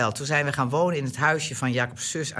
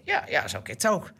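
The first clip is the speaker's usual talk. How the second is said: hint of mother's Gronings dialect, dry and resigned; understated Gronings remark about the tree. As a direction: Gronings moeder, droog en licht nagedaan. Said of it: "praat ik Gronings".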